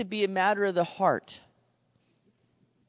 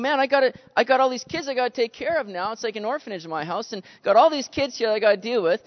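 retold frustration, higher in pitch; frustrated; 6 semitones higher, 3 dB louder than usual. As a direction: replay being mildly exasperated and swamped. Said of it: "I'm like, I'm getting frustrated".

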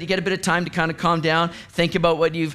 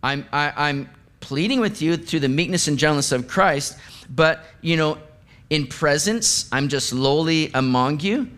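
sarcastic; 4 semitones lower than usual. Retold or imitated. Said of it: "Paul's kind of sarcastically saying".

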